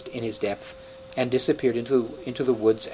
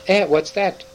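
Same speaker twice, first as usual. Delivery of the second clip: startled, higher and louder; a jolted "Eh?" from the dwarf; surprised dwarf; 7 semitones higher, 5 dB louder than usual. Acted. Dwarf caught off guard by the news, surprised.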